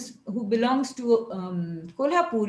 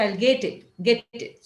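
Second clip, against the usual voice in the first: Marathi English accent. Shown as a demonstration. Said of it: "they'll say".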